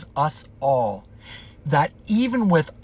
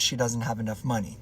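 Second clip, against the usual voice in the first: hushed; 5 semitones lower, 6 dB quieter, faster than usual. Retold or imitated. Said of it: "the cashier just kind of whispered".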